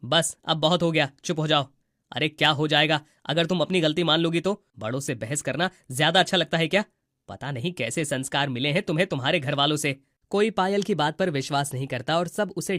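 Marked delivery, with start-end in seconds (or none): 0.0-9.4 stern scolding. Acted. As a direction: shut the argument down hard. Father-in-law scolds the daughter-in-law.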